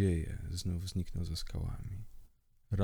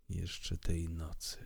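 slow, quieter echo of „jeszcze tej nocy” with weight on „tej”; softer repeat; 5 dB quieter, slower than usual. Acted. Ataman repeating his promise to Kirył, quieter and slower.

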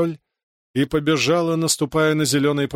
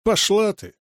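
higher, rude retort; snapping back; 6 semitones higher than usual. A narrator's reading. Brother snarling back at his teasing sister. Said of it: "огрызнулся брат".

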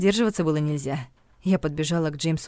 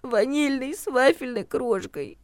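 comfort-food wish through tears; sniffling request; 8 semitones higher, slower than usual. A narrator's reading. Regina asks the heroine for cake and wine, sniffling. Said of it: "всхлипнула Регина".

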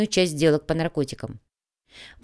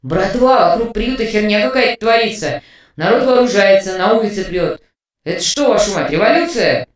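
louder, alarmed report through a speaker; voice over speakers; 3 semitones higher, 6 dB louder than usual. A narrator's reading. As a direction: call in from the street over the line, rattled. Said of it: "Из динамиков полился голос".

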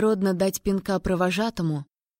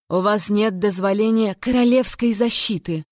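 cry out; 4 dB louder than usual. Acted. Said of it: "вскрикнула я".

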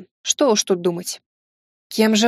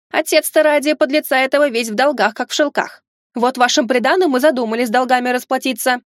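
shrill nagging grandma. Acted. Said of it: "не менее гневно упрекнула".

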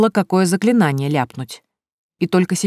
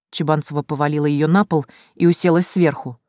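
ordinary delivery, nothing marked

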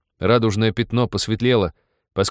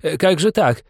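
astonished; 9 semitones higher, 5 dB louder than usual. A narrator's reading. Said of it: "изумился пассажир".

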